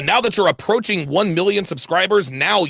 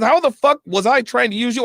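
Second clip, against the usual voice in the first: retold angry outburst; 8 semitones higher than usual. Quoting Kevin's angry retort at him, mock heated. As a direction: mimic his heated, offended question. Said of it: "he got heated".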